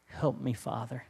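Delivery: soft, hushed plea to the Father; quiet prayer. Retold or imitated. Jesus withdrawing to pray to the Father, soft and hushed. Jesus praying in retold scene.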